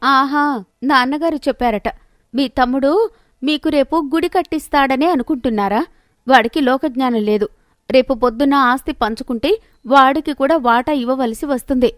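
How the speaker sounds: lightly voiced scornful wife; mock his trust in his brother; scoffing wife.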